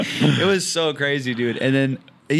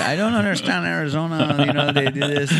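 higher-pitched Persian character voice; playful mock Persian accent, pitched up; 3 semitones higher than usual. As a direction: put on a Persian comic accent. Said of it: "do a Persian character".

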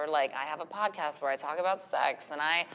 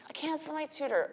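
put-on much higher, nagging child voice on "cancel"; whiny kid imitation; 12 semitones higher than usual. Mom imitating her nagging daughter, high and whiny. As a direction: mimic a daughter pestering, pitched way up. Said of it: "She's being relentless".

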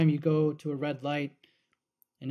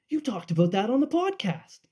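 higher, louder teasing call-out; coworker's gotcha; 7 semitones higher, 5 dB louder than usual. Retold or imitated. Coworker Nick bouncing out at work, higher teasing call-out. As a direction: pop out of nowhere and needle him. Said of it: "just goes".

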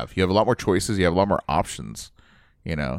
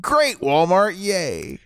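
sarcastic; 11 semitones higher, much slower than usual. Real, not acted. Mocking Walmart's low wages.

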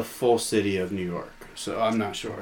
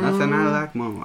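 mock Southern accent; 4 semitones higher than usual. Joining in the skit as a Southern landowner, mock Southern accent. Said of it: "the Southern accent kinda developed as a class structure".

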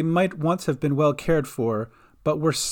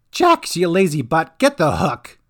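gruff captain; 3 semitones higher, 6 dB louder than usual. A narrator's reading. Captain Reza barking order.

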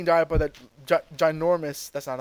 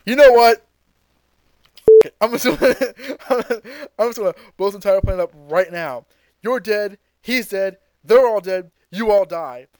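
Frieza raging; 3 semitones higher, 4 dB louder than usual. Retold or imitated. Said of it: "So Frieza's like".

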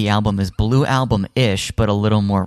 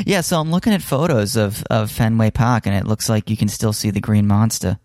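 put-on Boston accent. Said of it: "How's my Boston accent?".

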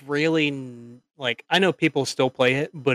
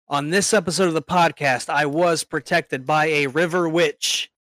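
grand announcer voice; 3 semitones higher, slower than usual. Acted. Grand self-introduction.

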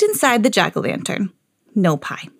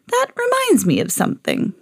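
wizard voice. A narrator's reading. Wizard speaks.

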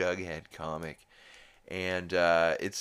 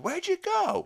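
very high, loud call; put-on hooker voice; 7 dB louder than usual. Hooker looking for people standing still, high put-on call. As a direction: squeal it out as a comic character.

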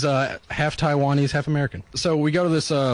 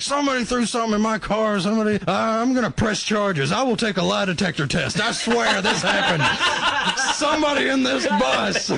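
high, raised, hammed-up angry rant; imitating an angry driver; 9 semitones higher than usual. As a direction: act out the furious driver shouting on the bus. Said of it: "He starts shouting and hollering".

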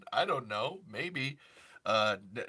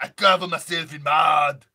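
mock movie line; 4 semitones higher, 11 dB louder than usual.

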